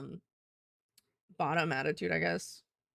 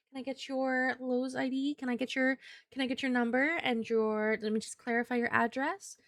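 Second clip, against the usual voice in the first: lightly sweetened, apologetic service voice; a hint of a polite helpful clerk; customer service voice; 2 semitones higher than usual. Shown as a demonstration. Clerk soothing an upset customer, in a light service voice. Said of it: "you have your customer service voice and you're like".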